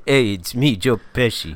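silly put-on celebrity accent; Joe Pesci accent. Co-host joking back with a name, silly celebrity accent. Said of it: "That's your same accent again".

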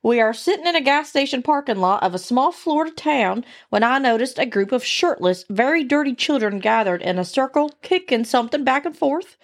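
redneck storyteller's twang; Southern redneck accent. Acted. Host restarts the deer hunting story, Southern accent. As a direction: spin the yarn in a Southern accent. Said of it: "I like the accent".

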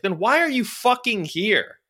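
high, slow, exasperated mock snap; exasperated retort. Retelling what he said to the salesman, high and exasperated. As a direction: let the disbelief drag out. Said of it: "And I was like".

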